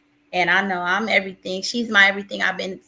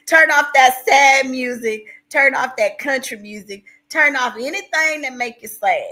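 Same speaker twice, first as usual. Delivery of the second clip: retold emphatic order; 5 semitones higher, 7 dB louder than usual. Pastor's orders acted out emphatically.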